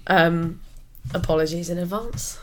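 hoarse, lost voice; croaky, worn-out voice. Real, not acted. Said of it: "I sound very croaky".

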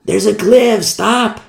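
mild mock yell; mock scream. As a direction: act out a scream without full volume. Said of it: "crazy to scream at the top of my lungs".

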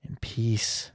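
soft, voiceless whisper; hushed whisper. Pretend. Host wishing for quiet last days, hushed whisper. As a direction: let the words out on breath alone. Hushed end to retirement wish.

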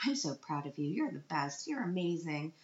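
lightly hammed-up pageant mom praise; over-the-top pageant mom. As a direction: gush a little, like a mock stage mother. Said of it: "over the top pageant mom".

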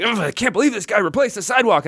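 mock exasperated complaint. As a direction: imitate an annoyed worker grumbling. Retelling an annoyed worker's complaint.

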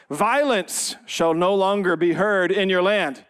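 slow, measured pulpit reading; scripture reading. Acted. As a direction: read out the verse with weight on each phrase. Reads scripture to congregation.

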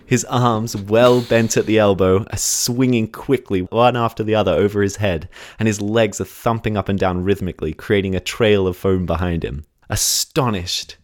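measured, dramatic scene-setting narration; story narration. Acted. Podcast host sets the scene at the pool, story narration. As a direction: tell it like a suspenseful true story. Reads scripted race story.

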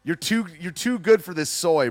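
ordinary delivery

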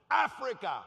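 full-force yell; screamed test word. Retold or imitated. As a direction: bellow it at a deaf man. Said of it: "I start screaming words".

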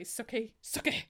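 mock Southern accent. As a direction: imitate the lead actor's Southern accent, teasing. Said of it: "the way he would say".

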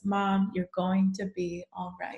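slow, tender poem recital; poem reading. Acted. Daughter reading her mom's poem aloud, tender recital. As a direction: read it gently, like a keepsake.

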